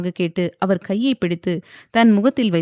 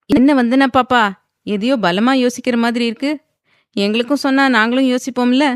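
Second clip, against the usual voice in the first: higher, louder friendly teasing; playful older helper; 5 semitones higher, 5 dB louder than usual. A narrator's reading. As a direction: coax her to share her thoughts. Maid Kamala teases Vandhana.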